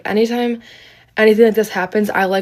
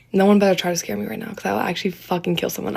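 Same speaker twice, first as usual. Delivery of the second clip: nervous; 4 dB quieter, faster than usual. Real, not acted. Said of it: "I'm actually scared".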